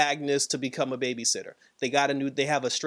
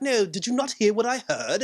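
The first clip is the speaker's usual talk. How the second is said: raised-pitch imitation of an insistent husband; Vision; 5 semitones higher than usual. Vision challenging his wife about what he heard, high imitation. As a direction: insist in a put-on higher voice. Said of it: "He's just like".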